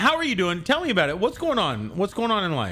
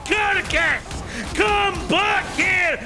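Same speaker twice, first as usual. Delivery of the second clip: high, shouted mock-Irish tirade; put-on Irish accent; 12 semitones higher than usual. Gamer raging at a fleeing enemy, shouted mock-Irish accent. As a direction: roar insults in a hammed-up Irish accent. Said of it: "I don't know why we've gone Irish".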